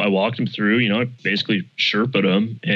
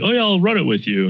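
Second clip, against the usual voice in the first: excited; 9 semitones higher, faster than usual. Retold or imitated. Buddy offering to help, quoted.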